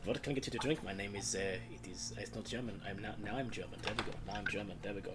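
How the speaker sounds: put-on German accent. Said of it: "get into the accent".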